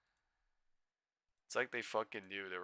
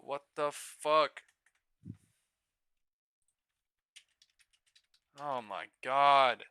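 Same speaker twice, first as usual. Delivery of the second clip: loud, higher disbelieving rant; excited yelling; 4 semitones higher, 9 dB louder than usual. Real, not acted. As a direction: shout it at the screen, can't believe it. Yelling at the gap fill.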